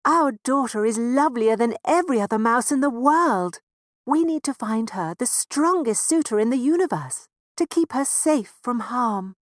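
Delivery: high, loud doting mouse parent; proud little mouse parent voice. Acted. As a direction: boast about your daughter like a fond mouse father.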